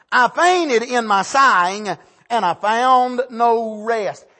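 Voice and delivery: slow, weighty reading of the verse; solemn scripture reading. Acted. Preacher reading Barak's lament to the congregation, slow and solemn. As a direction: lay each phrase down slowly and heavily.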